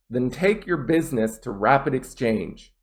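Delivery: natural rhythm stressing "take", "business", "Rapid", "Exchange"; stress on content words. Shown as a demonstration. Teacher repeating the natural model, content words stressed. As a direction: glide over "your" and "to", land on "Exchange". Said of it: "my biggest stress will be on exchange".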